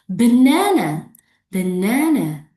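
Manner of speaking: BANANA in three beats, middle one big; three syllables. Shown as a demonstration. Teacher models a three-clap word for the class, three syllables. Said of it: "Three syllables".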